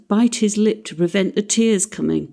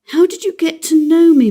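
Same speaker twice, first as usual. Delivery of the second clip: lightly voiced little boy, higher; child's question; 10 semitones higher, 7 dB louder than usual. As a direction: quote the child sweetly. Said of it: "Michael suddenly said to me".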